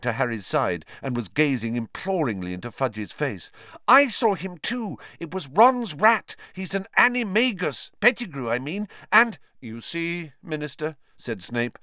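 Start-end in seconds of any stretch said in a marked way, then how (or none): 3.9-9.4 put-on pleading girl voice. Hermione pleading with Fudge. 9.6-11.0 cold sneering man. Acted. Snape's cold aside.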